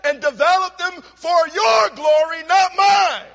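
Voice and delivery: loud, high preaching swelling to a shout; fervent pulpit cry; full-force preaching. Acted. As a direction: build the prayer to a ringing climax. Preaching climax with a prayer quote.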